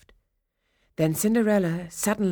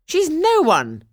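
higher and louder, scornful cry; wicked stepmother; 12 semitones higher, 9 dB louder than usual. Acted. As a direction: spit out her contempt for the girl. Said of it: "cried the stepmother".

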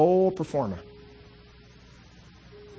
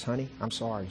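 soft, quiet apology to your wife; tender apology; 2 semitones lower, 6 dB quieter than usual. Retold or imitated. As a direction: say sorry gently, almost hushed. Couple apologizing to each other.

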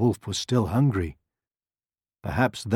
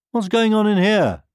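high, loud cry of alarm; alarmed sheep and goat; 13 semitones higher, 8 dB louder than usual. A narrator's reading. Sheep and goat pushing open hen's door, alarmed. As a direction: burst in with the question pitched high. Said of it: "getting very alarmed".

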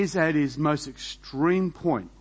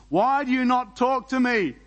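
higher, louder demand from Pilate; 9 semitones higher, 4 dB louder than usual. A narrator's reading. Pilate to silent Jesus, higher and louder demanding. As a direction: press him hard for an answer. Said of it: "Pilate demanded".

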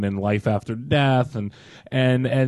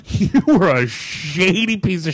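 mocking high voice; 9 semitones higher than usual. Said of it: "So he basically said".

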